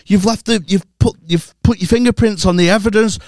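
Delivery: mock argument. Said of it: "we're arguing".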